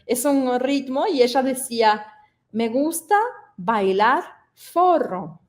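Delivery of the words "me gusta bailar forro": put-on gentle Brazilian-accented me gusta bailar forro; Brazilian learner's Spanish. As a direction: imitate a Brazilian friend saying forro. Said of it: "Decía así".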